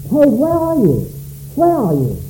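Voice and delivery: put-on a father calling for a lost child, high at first; broken-hearted father. Shown as a demonstration. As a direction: call with longing, like a father searching. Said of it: "as though God were a broken-hearted father".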